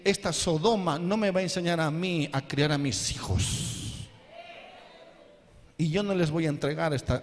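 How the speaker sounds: preacher's angry shout against Sodom; shouted denunciation. Real, not acted. Preacher denounces the world.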